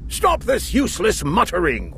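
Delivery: a king cutting off the mumbling; king ordering. Acted. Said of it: "ordered the king".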